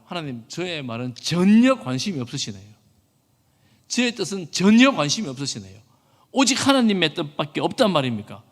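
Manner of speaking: 전혀에 힘을 주어 따지듯; 항의하는 요나. Acted. 요나의 항의를 연기함. (하나님께 따지는 말투)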